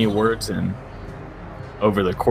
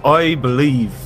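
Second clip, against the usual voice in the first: grand speech. Acted. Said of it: "makes a very grand speech".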